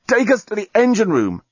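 high-pitched strained order; gasped in pain. A narrator's reading. Wounded journalist orders gondola onward, gasping. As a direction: force the order out through pain. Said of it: "gasped the journalist, holding his stomach".

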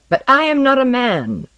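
high, loud protest; angry interruption. Acted. Osden cuts Tomiko off mid-sentence, angrily insistent. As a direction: cut in forcefully, voice lifted.

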